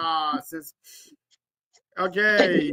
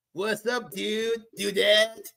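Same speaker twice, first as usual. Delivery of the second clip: muttered under breath; 9 dB quieter than usual. Retold or imitated. Muttered correction.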